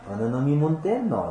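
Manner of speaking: light Gyeongsang demo of a classic phrase; Gyeongsang dialect. Shown as a demonstration. Pastor demonstrating a Gyeongsang phrase, in light dialect. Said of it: "경상도 사람 잘 쓰는 말입니다".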